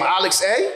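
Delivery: "Alex A" split into name and letter; mock mispronunciation. Teller scolding cousin about the device, "Alex A" as two words. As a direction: finish "Alex A" on a separate rising "ay". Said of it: "That is Alexa".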